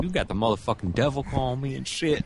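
quick mock indignation; imitating friend. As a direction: mimic his outrage quickly. Friend quoted reacting.

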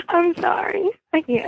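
apologizing through giggles; can't stop laughing, high-pitched. Real, not acted. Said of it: "why you laughing".

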